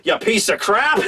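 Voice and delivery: high, thankful voice that sneers at the end; grateful then rude. Retold or imitated. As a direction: thank the boss sweetly, then mutter the insult. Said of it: "Frankie's just like".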